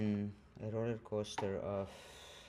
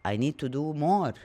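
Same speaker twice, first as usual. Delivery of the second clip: higher, louder, frantic rush; panicked need to do more; 5 semitones higher, 5 dB louder than usual. Retold or imitated. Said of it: "And then you feel like".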